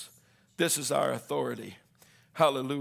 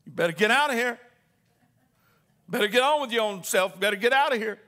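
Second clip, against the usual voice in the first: scolding parent; 5 semitones higher, 6 dB louder, faster than usual. Pretend.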